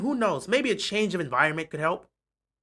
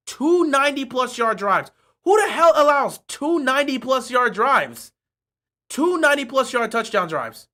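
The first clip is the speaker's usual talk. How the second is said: incredulous, pushed up higher; exasperated rant; 5 semitones higher than usual. Real, not acted. Fan ranting at the defense, exasperated. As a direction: demand it in disbelief.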